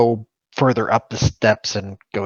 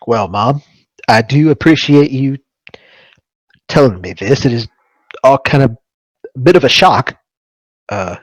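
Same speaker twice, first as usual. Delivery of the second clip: Harley to mom; 3 dB louder than usual. Acted. Player voices Harley to his mother.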